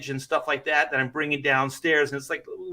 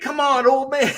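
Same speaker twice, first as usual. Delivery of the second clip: higher, louder mock-teasing daughter; sing-song taunt at her dad; 9 semitones higher, 5 dB louder than usual. Daughter ribbing her injured dad, higher teasing voice. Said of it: "my daughter's like".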